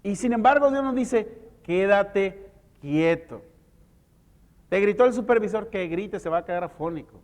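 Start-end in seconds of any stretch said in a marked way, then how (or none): 1.6-3.4 very slow, calm voice of God; slow, gentle order to be still; calm command. Acted. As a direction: lay it down slowly and steadily. God's command quoted.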